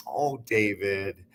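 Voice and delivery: a mother's gentle sigh of a name; lightly voiced gentle mother; gentle Oh David. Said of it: "She was incredibly gentle".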